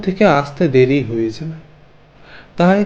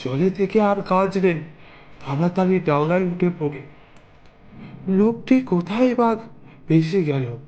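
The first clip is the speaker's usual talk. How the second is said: higher, softer, anxious muttering to himself; startled unease; 4 semitones higher, 5 dB quieter than usual. Acted. Ramesh kaka alone in the river at night, anxious muttering.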